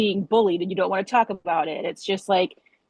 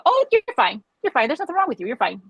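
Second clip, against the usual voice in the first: high, sing-song brush-off; mock a doctor waving you away; mocking dismissive doctor; 6 semitones higher than usual. Patient mocking doctors who dismiss her, high sing-song brush-off. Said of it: "to have people go".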